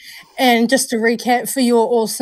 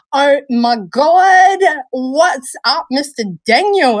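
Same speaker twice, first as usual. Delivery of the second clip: slow, loud oh my God; excited greeting; 3 semitones higher, 4 dB louder, slower than usual. Real, not acted. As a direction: stretch it out with delight. Greets arriving friend.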